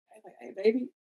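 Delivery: lifted, singsong self-quote; playful high voice. Retold or imitated. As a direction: play it breezy and high, like nothing's wrong. Retelling his reply to friend.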